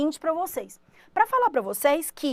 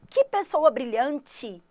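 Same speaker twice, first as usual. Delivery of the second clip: admiring; much slower than usual. Shown as a demonstration. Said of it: "Se você falar".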